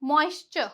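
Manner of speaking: "मॉइस्चर" ending in chur; TURE as "chur". Shown as a demonstration. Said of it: "क्या बोलेंगे इसे".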